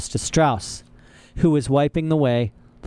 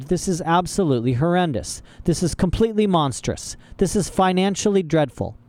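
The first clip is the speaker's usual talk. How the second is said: higher-pitched string of outraged complaints; indignant Mister Poe; 7 semitones higher than usual. A narrator's reading. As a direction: protest with mounting official dismay.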